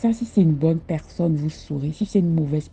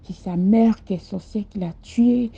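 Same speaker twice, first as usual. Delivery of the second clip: grieving man's accusation; 5 semitones higher, 3 dB louder than usual. Retold or imitated. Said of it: "Il me dit".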